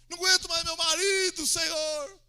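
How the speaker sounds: loud, high exasperated plea; hammed-up wailing shout. Acting a wife crying to God about her husband, wailing shout. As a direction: holler the complaint to God. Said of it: "chora lá, grita lá".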